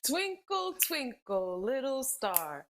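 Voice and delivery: slow singsong nursery rhyme, lightly characterized; lightly voiced kids' show host, slowing at the end; Barney. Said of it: "as if you're a Barney".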